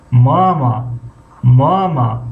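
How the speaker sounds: ماما with the first ma stretched; teacher showing ماما with a long first syllable. Shown as a demonstration. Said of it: "اگر هجای یکم هم بکشیم".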